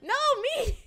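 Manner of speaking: high, loud playful yell; shouting. Real, not acted. Playful shouting argument over cucumbers.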